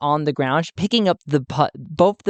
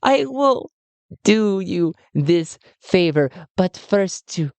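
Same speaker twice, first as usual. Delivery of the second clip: high, sugary villain voice; sweet talk high above the own voice; Emelina's voice; 6 semitones higher than usual. Acted. Emelina speaks to Talti.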